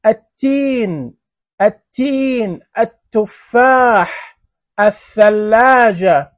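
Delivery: "التين", "التفاح", "الثلاجة" slowly, no L, doubled first consonant; solar lam, silent. Shown as a demonstration. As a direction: model "التين" as at-teen, stretched out for pupils. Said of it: "هذه كلها". ("التين" ببطء بتاء مشددة ولام لا تُنطق)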